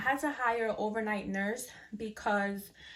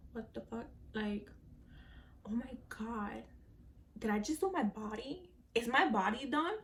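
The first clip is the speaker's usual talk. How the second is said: softer, barely audible disbelief; groggy hushed wonder; 8 dB quieter than usual. Retold or imitated. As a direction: murmur as if just waking up. Waking confused after surgery.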